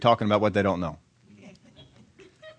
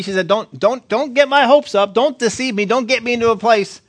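anguished mother's plea; 7 semitones higher, 4 dB louder than usual. Acted. Grieving mother confronts the prophet.

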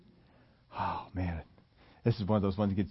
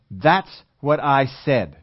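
slow and stern, a touch louder; 6 dB louder, much slower than usual. Retold or imitated. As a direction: lay it down sternly, word by word. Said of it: "very, very sternly".

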